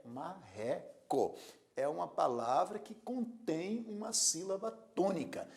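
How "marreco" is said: "Marreco" slow and lower, ma-RRE-co; stress on RE. Shown as a demonstration. Teacher repeating for the class, "Marreco" split with RRE stressed. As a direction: break "Marreco" into syllables, stressing the second. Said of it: "a sílaba mais forte é ré".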